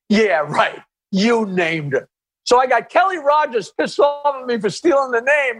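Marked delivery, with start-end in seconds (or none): 0.1-2.1 dry, level doubting echo with weight on "You"; skeptical retort. Retold or imitated. Robin doubting the comic's claim, dryly skeptical. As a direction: imitate a co-host who doesn't buy it. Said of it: "And Robin was like".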